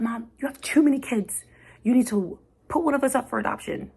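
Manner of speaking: high, loud child's voice imitating her daughter; daughter's voice. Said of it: "she said this".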